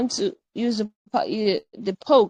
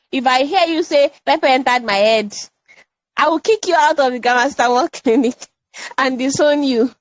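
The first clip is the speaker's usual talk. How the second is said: mock threat; 3 semitones higher, 5 dB louder than usual. Mock threat to expel her students.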